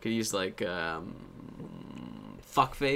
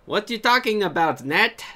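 imitating a catchphrase; 11 semitones higher, 7 dB louder, slower than usual. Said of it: "if they had an accent".

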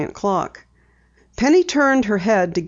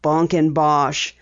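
breathy scoffing whisper, slow; 3 semitones lower, slower than usual. A narrator's reading. Father dismissing his daughter's claim, scoffing whisper. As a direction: brush it off under your breath.

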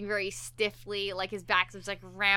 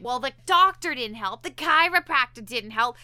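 louder, accusing retold nagging; mock scolding; 7 dB louder than usual. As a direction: throw it at him like a complaint. Wife berating husband in pain.

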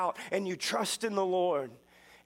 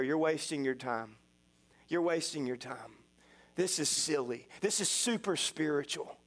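lower, hushed tempting voice of the enemy; enemy's whisper; 4 semitones lower than usual. Retold or imitated. The enemy tempting a fasting believer to quit, lower and hushed. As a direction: play the enemy coaxing, a bit lower and hushed. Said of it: "the enemy begins to whisper in your ear".

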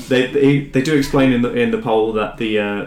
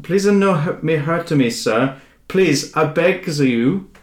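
higher, slowing, begging plea; lightly voiced weeping Gungan; terrified horror victim; 4 semitones higher, slower than usual. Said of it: "Tears flow freely".

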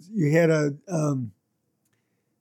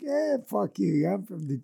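casual shrug; 3 semitones higher, 6 dB quieter than usual. Shown as a demonstration. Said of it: "it's not really like, you know, fuck off. It's more like".

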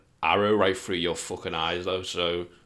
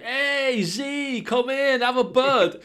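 high, bright-eyed welcome, much higher than usual; naive friendly greeter; much slower than usual. Pretend. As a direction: greet the stranger like a trusting fool.

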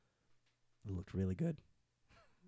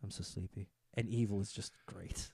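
softer, drowsy murmur; sleepy voice; 6 semitones lower, 7 dB quieter than usual. Retold or imitated. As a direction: say it like you're nodding off. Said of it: "his face is always just like".

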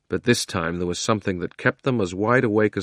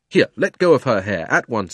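put-on louder stern boy's order; firm command; 4 dB louder than usual. Diggory ordering the witch off Polly. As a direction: demand it firmly.

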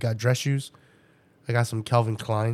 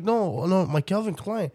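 mock kid voice pitched higher; whiny kid insisting, pitched up; imitating her son; 8 semitones higher than usual. Mother imitating son claiming the shoes, higher mock kid voice.

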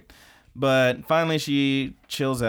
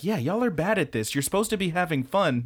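tag; 6 semitones higher than usual. Retold or imitated. Scolding the characters for joylessness.

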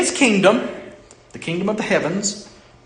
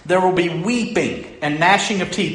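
weeping and gnashing said firmly, louder, stressing gnashing; forceful preaching; 3 semitones higher, 3 dB louder than usual. Acted. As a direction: proclaim it with weight, hitting gnashing. Preacher repeats the verse with force.

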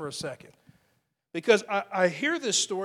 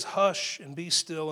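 calm command; 3 semitones lower, slower than usual. Retold or imitated. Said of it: "He says".

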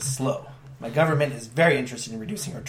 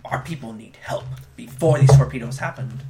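demanding Cardassian; 7 dB louder than usual. Acted. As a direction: bark demands at the whole table. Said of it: "The Cardassian stands up".

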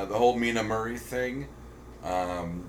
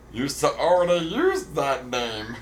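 robot voice; 4 semitones higher, slower than usual. Retold or imitated. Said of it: "sound like Jar Jar Binks".

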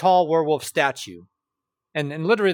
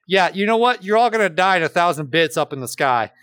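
louder, menacing prank threat; 5 dB louder than usual. Retold or imitated. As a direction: threaten like a crank caller. Mock bomb threat call.

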